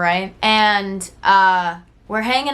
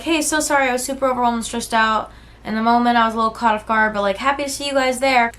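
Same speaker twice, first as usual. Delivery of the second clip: fawn response; 3 semitones higher, faster than usual. Retold or imitated. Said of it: "go into fawn response".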